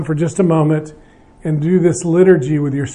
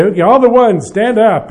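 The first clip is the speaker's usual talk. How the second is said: hint of an organizer calling out, higher pitched; mock announcing; 4 semitones higher, 3 dB louder than usual. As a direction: lightly pretend to order a group up. Acted leader ordering groups to stand.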